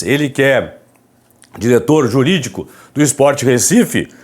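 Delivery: hushed, hoarse voice from a sore throat; raspy whisper. Real, not acted. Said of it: "Falando baixinho aqui".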